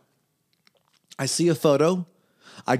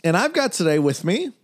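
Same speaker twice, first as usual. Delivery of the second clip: podcast host welcome. Acted. Host welcome over music.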